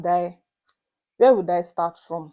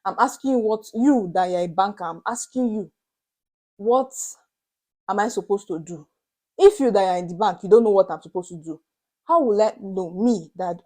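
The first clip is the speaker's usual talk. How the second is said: raised, indignant questioning of the banker; 5 dB louder than usual. Retold or imitated. Vlogger retells pressing the bank worker for answers, indignant and raised. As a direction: demand answers from the clueless banker.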